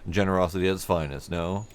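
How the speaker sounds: a hint of a welcoming foreman; friendly supervisor. Player voicing a supervisor greeting a traveler, hearty. NPC dialogue.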